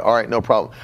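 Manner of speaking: low, easygoing acknowledgment in a quote; Brother Hagin. Retold or imitated. Veteran preacher answering a line of publishing requests, lightly voiced, low and easygoing. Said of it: "All right, he'd say".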